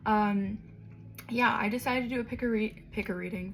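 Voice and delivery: slightly raspy, scratchy throat. Real, not acted. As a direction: speak through a raspy sore throat. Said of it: "my voice seems a little raspy right now".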